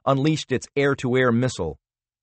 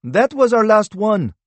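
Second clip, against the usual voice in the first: raised voice; 11 semitones higher, 6 dB louder than usual. A narrator's reading. Character line, raised.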